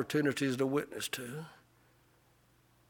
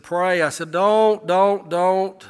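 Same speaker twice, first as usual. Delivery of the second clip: louder, higher mock protest; a hammed-up refusal to his wife; 5 semitones higher, 11 dB louder, much slower than usual. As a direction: push her off in a retold huff. Retold quarrel with wife.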